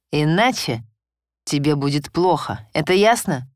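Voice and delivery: жёсткий приказ, громче; запугивать, чеканя слова; угрожающе. Acted. Муж запугивает жену. (властная угроза)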